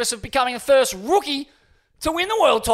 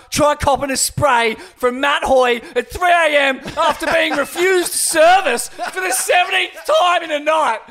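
shout; 4 semitones higher, 3 dB louder than usual. Acted. Mock commentary rant.

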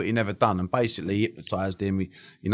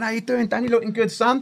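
mock salesman charm; 13 semitones higher than usual.

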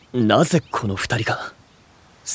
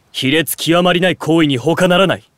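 higher, louder condemnation; outraged denunciation; 7 semitones higher, 5 dB louder than usual. Acted. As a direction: spit out the verdict in disgust. Denouncing intrusion on time together. (激しく非難する)

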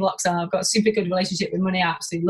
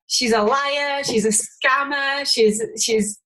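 higher-pitched, drawn-out imitation of accusers; mock accusing; 4 semitones higher, slower than usual. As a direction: list the charges slowly, mimicking critics. Voicing her online critics' accusations.

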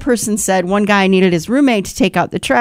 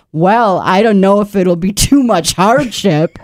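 mocking echo. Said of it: "He's like".

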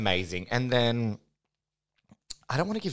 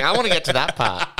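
excited; 8 semitones higher, 9 dB louder than usual. Retold or imitated. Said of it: "I was just like".

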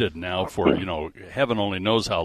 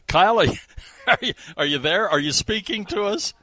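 calling out; 11 semitones higher, 3 dB louder than usual. Real, not acted. Calling out to remote guest.

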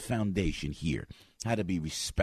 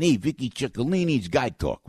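Vinnie Ciccolini voice; 5 semitones higher, 3 dB louder than usual. Retold or imitated. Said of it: "I was talking like this".

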